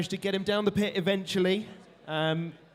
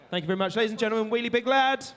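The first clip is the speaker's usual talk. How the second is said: announcer call; 6 semitones higher, 3 dB louder, faster than usual. Real, not acted. Announcing robot winner to crowd.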